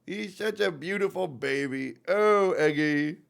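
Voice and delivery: slow, tender pet talk; doting coo. Real, not acted. Owner calling his cat a beautiful baby, cooing. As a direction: coo slowly over a beloved cat.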